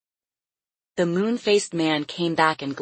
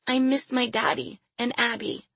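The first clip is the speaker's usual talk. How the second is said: put-on high little girl's voice; child's sorrowful prayer; 7 semitones higher than usual. A narrator's reading. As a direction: confess it to God in a small, high voice. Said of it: "she prayed".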